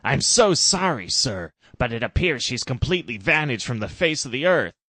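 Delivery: groveling Trump. Acted. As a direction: grovel and beg forgiveness. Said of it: "Trump was groveling".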